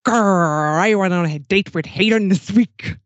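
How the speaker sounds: pirate growl, lightly done; a hint of a gruff pirate. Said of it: "in a pirate voice".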